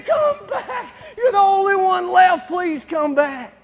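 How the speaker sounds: high, loud shouted pleas; frantic shout. Retold or imitated. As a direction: scream at them to come back. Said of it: "they're screaming".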